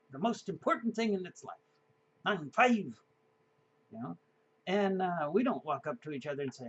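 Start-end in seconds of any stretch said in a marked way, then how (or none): 2.2-2.8 put-on high kid voice with a lift at the end; a hint of a beaming child; lightly voiced proud kid. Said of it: "proudly announced".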